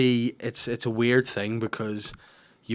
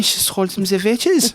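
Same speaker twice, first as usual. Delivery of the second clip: higher, slower storybook granny; 10 semitones higher, 5 dB louder, slower than usual. Retold or imitated. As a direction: read it like the old granny telling a tale. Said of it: "if you're speaking as the granny".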